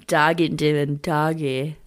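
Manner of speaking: drawn out through laughter; slow laughing aside. Real, not acted. Friend giggling at the pun, slow and amused. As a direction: savour the pun slowly.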